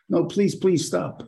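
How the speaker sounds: high, slow plea; acted pleading. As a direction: beg gently but helplessly. Acts out pleading with a crying person.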